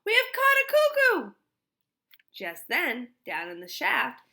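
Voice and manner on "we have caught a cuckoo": high, loud jeering cop voice; mocking policeman. A narrator's reading. Policeman mocking Missus Lambchop, loud and high. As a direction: crow it out like a joke.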